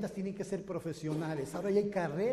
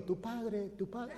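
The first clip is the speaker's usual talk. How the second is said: soft, fading echo; joke echo; 5 dB quieter, slower than usual. Retold or imitated. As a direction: whisper it back like a distant echo. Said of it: "el eco le respondió".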